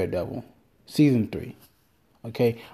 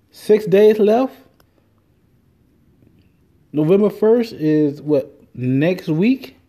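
slow countdown; 7 semitones higher, 5 dB louder, much slower than usual. Real, not acted. Counting down sober days.

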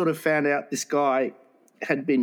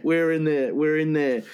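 put-on German accent. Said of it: "Any excuse to do a German accent".

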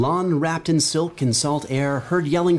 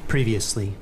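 ominous storyteller voice; dark narrator intro; dramatic narration; 3 semitones lower than usual. Acted. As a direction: draw them into the tale.

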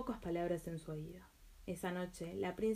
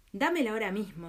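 angry; 6 dB louder than usual. Acted. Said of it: "dijo el hechicero enfurecido".

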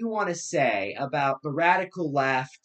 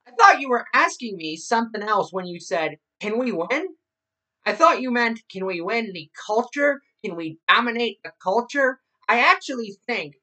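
higher mocking radio-host voice; Rush Limbaugh parody; 6 semitones higher, 4 dB louder than usual. Podcast host quoting a radio host to listeners, mocking his voice. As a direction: pitch it up to lampoon a pundit's rhetorical questions. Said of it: "making fun of his voice".

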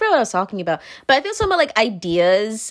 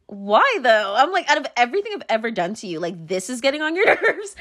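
teasing, bullying tone; 3 semitones higher than usual. Retold or imitated. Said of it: "that tone is, like, bullying".

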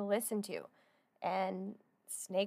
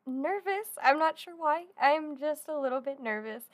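excited and nervous; 4 semitones higher than usual. Real, not acted. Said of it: "I'm so excited and nervous".

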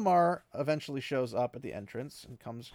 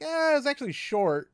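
Lan; 14 semitones higher, 9 dB louder than usual. Retold or imitated. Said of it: "said Lan".

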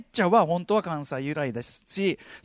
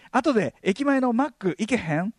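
slow, careful fake Kansai question; show-off Kansai accent; 3 semitones higher than usual. Student inviting a new Kansai friend, put-on Kansai accent. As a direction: ask casually in put-on Kansai-ben. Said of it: "関西弁イキリは暴走モードに突入".

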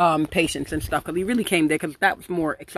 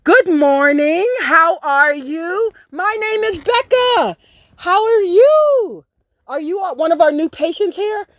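fake-polite receptionist; 8 semitones higher, 3 dB louder than usual. Girl mocking the rehab owner, sugary and much higher. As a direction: greet him like a chirpy over-sweet receptionist. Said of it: "all the nigga came out of me, but respectfully".

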